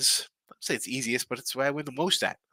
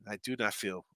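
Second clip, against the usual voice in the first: blocked nose; 4 semitones lower, 9 dB quieter than usual. Real, not acted. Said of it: "My nose is a little stuffed".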